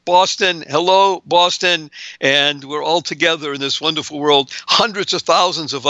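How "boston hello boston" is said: cheerful greeting. Real, not acted. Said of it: "suffice it to say".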